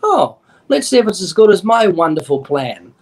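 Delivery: mocking, dismissive retort; scoffing. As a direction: sneer at the offer lightly. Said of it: "David would have said".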